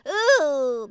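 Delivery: ooh with a flip. Shown as a demonstration. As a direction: let the ooh flip over. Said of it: "I wanna do the flip".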